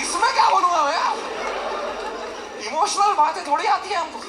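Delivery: laughing exasperation. Real, not acted. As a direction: laugh at your own helplessness. Laughing helpless complaint.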